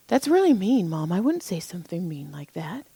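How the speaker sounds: mock a wounded kid, trailing off softly; imitated hurt son. Mom imitates her son objecting to her lie, hurt child.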